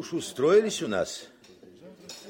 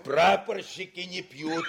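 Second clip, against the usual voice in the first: laughing; 5 semitones higher than usual. Acted. Joking about ensigns not drinking.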